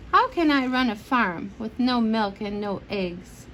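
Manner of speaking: lively bedtime storybook reading; reading to children. Acted. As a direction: read it aloud to a child at bedtime. Parent reads picture book aloud.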